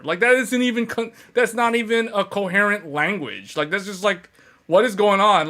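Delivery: half-joking freak-out, voice up; mock scared normie. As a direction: play a spooked gamer backing away from jargon. Mock normie gamer fleeing jargon.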